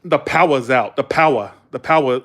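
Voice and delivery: imitated New England "power"; dropped-R New England accent; Northern accent. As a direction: say "power" as "pow-uh", Northern style. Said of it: "kind of accent is that".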